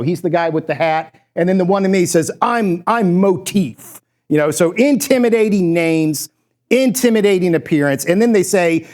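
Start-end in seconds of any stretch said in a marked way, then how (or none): 2.4-4.0 slow, drawn-out mock tough-guy intro; lightly put-on street swagger. Player introducing himself in a commercial, mock tough. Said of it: "to really look tough".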